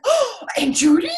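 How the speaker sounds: high, delighted "Oh, Aunt Judy?"; excited gasp. Retold or imitated. Little girl spotting her favorite aunt, high excited squeal.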